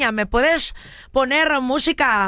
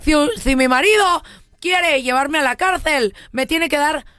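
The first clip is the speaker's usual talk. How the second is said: bride voice; 4 semitones higher than usual. Acted. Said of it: "Y ella dijo".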